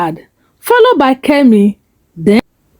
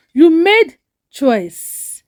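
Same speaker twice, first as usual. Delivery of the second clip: sharp; 4 semitones higher, much slower than usual. Acted. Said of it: "Kami interrupted sharply and said".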